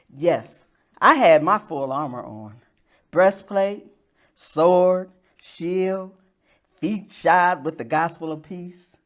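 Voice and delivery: measured spoken-word delivery with deliberate pauses; poetry reading. Acted. Poet telling an audience of lost armor, measured poetry reading. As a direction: read your poem aloud phrase by phrase, weighting key words. Reads own poem to audience.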